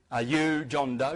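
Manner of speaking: imitating a judge repeating slowly; insistent repeat. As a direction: repeat the question slowly, word by word. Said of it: "I'll repeat".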